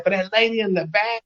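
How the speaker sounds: stage call-out to the lady in the back; a singer on stage. Retold or imitated. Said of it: "he said".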